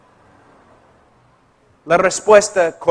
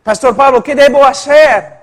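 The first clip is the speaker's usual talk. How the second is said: pleading woman; 6 semitones higher, 6 dB louder than usual. Retold or imitated. Distressed woman asking pastor.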